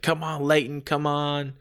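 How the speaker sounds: lightly acted ringside encouragement; mock mom rooting for her son; fired-up cheering. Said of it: "she's getting all fired up".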